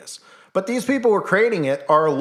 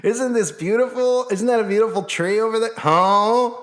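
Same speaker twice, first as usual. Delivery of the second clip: mock wonder; 9 semitones higher than usual.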